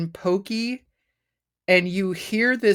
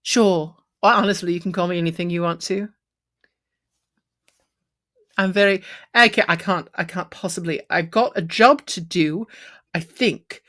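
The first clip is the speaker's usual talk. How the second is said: a hint of a camp shopkeeper, darting and flustered; flustered satyr. Satyr overwhelmed by the robot's quest, lightly camp. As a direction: fuss over the stranger like a camp satyr.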